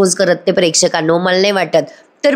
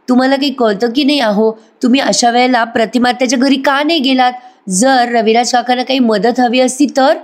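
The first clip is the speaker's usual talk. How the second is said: irritated scolding; 4 semitones higher than usual. Acted. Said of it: "तू इतकं काय चिडतेस यार माझ्यावर?".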